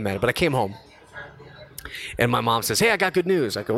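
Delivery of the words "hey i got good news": high, bright-voiced announcement; imitating an excited mom. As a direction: sing out the good news.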